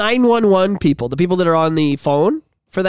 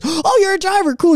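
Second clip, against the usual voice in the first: high, upbeat mock surprise; retold impressed reaction; 10 semitones higher than usual. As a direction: act impressed by a friend's job. Retold reaction to buddy's job.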